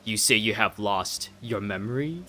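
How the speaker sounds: regal, measured questioning; a king pressing gently for an answer; puzzled old king. Acted. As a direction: question with stately, swooping emphasis. Voices the king.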